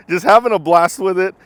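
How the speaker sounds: laughing through the words; chuckling while talking. Real, not acted. Laughing after flipping the car.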